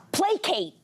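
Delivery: "placate" as PLAY-kate, set apart; careful pronunciation. Shown as a demonstration. Host giving an example word she misread, isolated "placate". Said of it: "I mispronounce words all the time".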